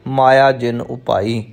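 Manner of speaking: ਮਾਇਆ ਜਿਨ ਉਪਾਈ as one three-word group. Shown as a demonstration. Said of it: "ਇਸ ਤਰ੍ਹਾਂ ਤੁਸੀਂ ਇਸ ਦਾ ਪਾਠ". (ਮਾਇਆ ਜਿਨ ਉਪਾਈ ਤਿੰਨ ਸ਼ਬਦਾਂ ਦਾ ਇੱਕ ਜੋੜਾ)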